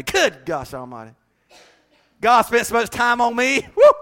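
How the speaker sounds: mock bragging. Preacher demonstrating bold mirror self-talk: hammed-up boast. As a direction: strut in front of the mirror. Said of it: "start talking like that".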